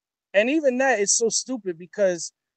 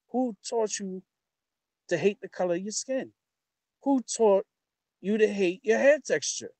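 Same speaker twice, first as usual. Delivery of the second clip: quoting Malcolm; 4 semitones higher than usual. Retold or imitated. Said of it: "when Malcolm did the, the speech".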